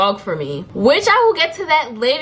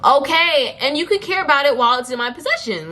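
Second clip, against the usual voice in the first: a touch of indignation, higher and quicker; exasperated retort; 5 semitones higher than usual. Acted. Buyer scoffing at the seller's claim to care, mildly exasperated. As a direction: cut in with a high, impatient comeback.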